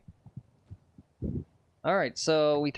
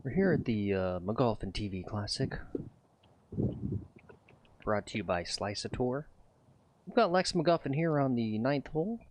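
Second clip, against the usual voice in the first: golf announcer voice. Pretend. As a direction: call it like a TV golf broadcast. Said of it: "Let's do a little announcer voice here".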